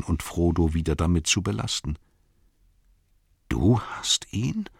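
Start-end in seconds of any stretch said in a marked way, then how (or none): 3.5-4.7 slow, disbelieving question; can't believe his ears, drawn out; astonished. Acted. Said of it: "staunte Frodo".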